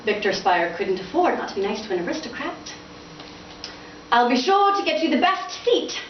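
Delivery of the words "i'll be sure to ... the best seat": high, sweet cooing father. Acted. Father cooing to his son about seats. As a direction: coo it like a flatterer. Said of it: "his father cooed".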